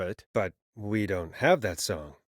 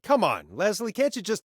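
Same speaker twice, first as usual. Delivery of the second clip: higher, begging tone; pleading; 8 semitones higher than usual. Acted. Host begging Leslie to secure the town, higher pleading.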